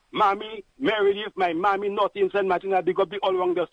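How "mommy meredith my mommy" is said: excited shout-out. Real, not acted. Shout-outs to family on air.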